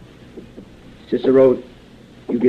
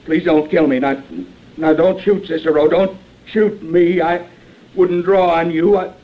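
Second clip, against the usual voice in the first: pleading; 4 semitones higher than usual. Acted. Cornered fake marshal begging Cicero not to shoot, mild frightened pleading. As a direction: beg him not to shoot.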